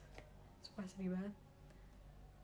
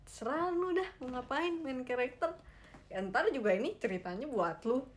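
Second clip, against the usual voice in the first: exasperated, higher-pitched brush-off; dismissive; 4 semitones higher, 4 dB louder than usual. Pretend. Viewer telling the main character to do whatever, dismissive. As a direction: wave them off, mock fed up.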